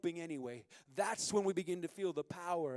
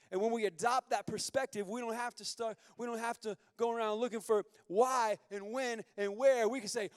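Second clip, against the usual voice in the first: rising sermon; 3 semitones higher, 6 dB louder than usual. Acted. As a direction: drive the promise home. Builds into full preaching.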